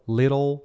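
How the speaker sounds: "little" with a tapped middle: LIH-rol; rhyming comparison word. Shown as a demonstration. Teacher alternating similar words, "little" as LIH-rol. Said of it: "que é parecido".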